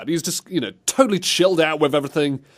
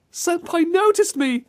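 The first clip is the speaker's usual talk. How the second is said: very high-pitched gushing fan voice; gasp, then gush about your idol; hammed-up starstruck squeal; swooning fan. Acts a thrilled admirer of the hero.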